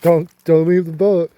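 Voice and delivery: mild re-enacted yell; retold yell. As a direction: raise your voice slightly, warning him back. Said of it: "I yelled at him".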